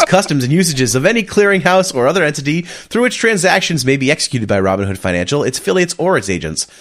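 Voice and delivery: rapid legal disclaimer read; radio voice. Shown as a demonstration. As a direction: rattle off the fine print like a radio ad. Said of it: "my best radio voice".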